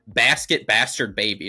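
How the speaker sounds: loud, slow, drawn-out taunt; mock yell. Daniel starts yelling at his son, slow mock yell. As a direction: imitate yelling an insult, each word stretched. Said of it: "he just starts yelling at him".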